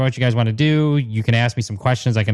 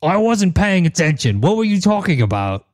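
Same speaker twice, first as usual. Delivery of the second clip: high character voice; 5 semitones higher than usual. Acted. GM voices Zeke.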